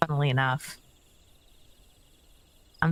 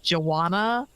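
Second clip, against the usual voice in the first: lightly voiced friendly villager reading quest text; a hint of a folksy quest giver. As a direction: read it like a game townsfolk.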